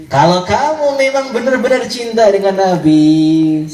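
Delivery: slow, drawn-out coaxing; coaxing suitor. Acted. Man testing a veiled woman's love for the Prophet, coaxing. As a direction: challenge her slowly, stretching the words.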